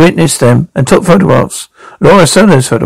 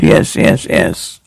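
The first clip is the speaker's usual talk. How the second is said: breathless whispered yeses, fading away; 11 semitones lower, 5 dB quieter, slower than usual. Acted. Distraught woman whispering to detectives. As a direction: barely voice the words, broken.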